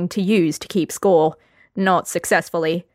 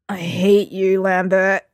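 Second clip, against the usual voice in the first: talking into his arms; head down, muffled words; slower than usual. Acted. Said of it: "Geralt said muffledly".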